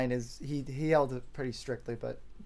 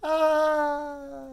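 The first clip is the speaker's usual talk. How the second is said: whisper scream; 9 semitones higher than usual. Pretend. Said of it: "the iconic whisper scream".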